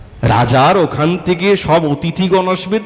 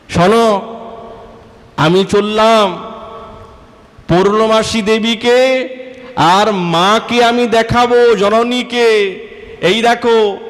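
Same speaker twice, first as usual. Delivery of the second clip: spiteful threat; 7 semitones higher, slower than usual. Acted. Kutila threatening to show everyone.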